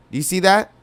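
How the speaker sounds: normal talking voice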